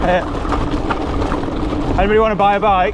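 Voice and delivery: joking despair. Real, not acted. Joking despair at another climb.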